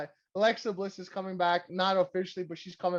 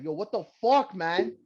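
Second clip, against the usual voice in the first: higher, louder mock outrage at his dad; hammed-up indignant shouting, pitched up; imagined angry son; 7 semitones higher, 4 dB louder than usual. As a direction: act out a betrayed son yelling at his father.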